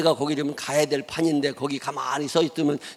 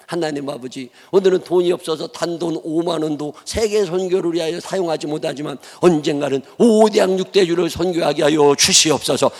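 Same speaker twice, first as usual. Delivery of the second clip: fervent pulpit prayer, building louder; earnest prayer; 2 semitones higher, 5 dB louder than usual. Retold or imitated. Young pastor praying before a world map, fervent and building. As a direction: pray it aloud with full conviction. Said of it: "목사가 기도를 시작한 거예요".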